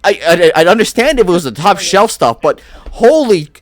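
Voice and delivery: lightly voiced Bostonian barkeep, scolding; a hint of a Bostonian accent, telling him off. Halfling barkeep scolds Creed over his unpaid tab, lightly voiced Bostonian accent. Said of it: "I'm trying a Bostonian".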